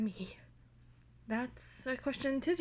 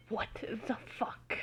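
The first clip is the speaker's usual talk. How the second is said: slow, softer, whispered curse; quiet mutter; 5 dB quieter, slower than usual. Acted. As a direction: mutter it under your breath in shock. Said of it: "muttered a quiet".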